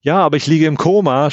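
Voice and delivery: a restrained, narrated cry of protest; understated exclaiming; mild shout. A narrator's reading. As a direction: protest insistently, as a held-back shout. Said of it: "schreie ich jedes dieser Wörter lauter heraus".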